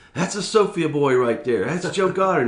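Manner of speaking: put-on excited old man exclaiming. Retelling a grandfather jumping up at the TV: imitating an excited grandfather. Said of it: "my grandfather was so excited".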